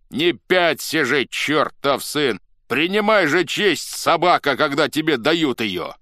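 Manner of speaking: high, loud cursing order; bully him onward loudly; scolding shout. A narrator's reading. Cossacks shove the reluctant chief, shouting curses.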